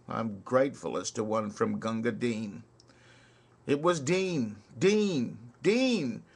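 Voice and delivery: rhythmic ballad recital with swinging beat; poem recitation. Acted. Reciting Kipling's soldier ballad to listeners, rhythmic recital. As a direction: recite it like a barrack-room ballad.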